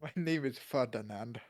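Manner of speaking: half-hearted mock Russian accent. Podcaster attempting Ferdinand for co-host, mock Russian accent. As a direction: try a light Russian accent. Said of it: "Ferdinand in a Russian accent".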